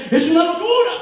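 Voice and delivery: high-pitched acted exclamation of outrage; scandalized outburst. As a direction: burst out at the scandal, voice jumping up. (exclamación escandalizada)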